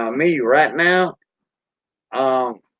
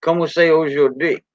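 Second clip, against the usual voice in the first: Cajun French; 3 semitones higher than usual. Shown as a demonstration. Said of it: "We say".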